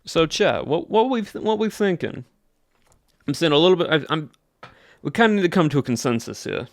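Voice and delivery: put-on country Southern accent. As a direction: lift it high with a Southern twang. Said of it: "I'm gonna be talking like this".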